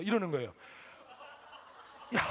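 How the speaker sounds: ordinary delivery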